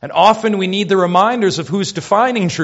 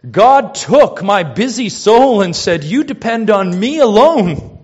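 impassioned preaching; 6 semitones higher, 5 dB louder than usual. Retold or imitated. Preacher at full force quoting.

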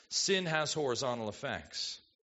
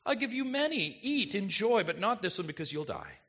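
loving father; 3 semitones higher than usual. Retold or imitated. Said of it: "from a loving Father".

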